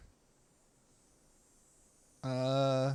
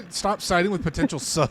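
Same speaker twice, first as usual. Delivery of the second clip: laughing; 3 semitones higher, 6 dB louder than usual. Real, not acted. Laughing while scolding friend.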